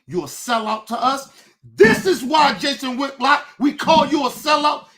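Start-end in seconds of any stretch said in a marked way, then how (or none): 1.6-4.9 This is why, shouted loud, punching "This"; real anger, loud on "This is why"; angry shout. Real, not acted. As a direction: hurl "This is why" at them. Repeated accusation, shouted version.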